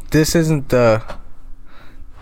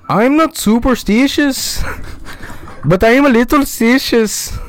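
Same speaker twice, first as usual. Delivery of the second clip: high, slow mock Amish accent, breaking into a laugh; 13 semitones higher, 3 dB louder than usual. Friend quoting The Office to friend, in a high, slow mock Amish accent. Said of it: "That was an amazing Amish accent".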